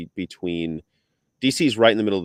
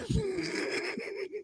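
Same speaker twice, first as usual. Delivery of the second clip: high laugh; 11 dB quieter than usual. Real, not acted. Laughs at the other's hair.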